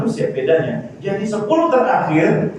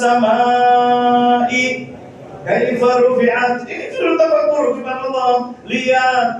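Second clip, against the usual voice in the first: sustained, slightly raised sermon delivery; preaching; 7 semitones higher than usual. Real, not acted. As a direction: exhort the congregation to reflect. Preaches on reflecting upon creation.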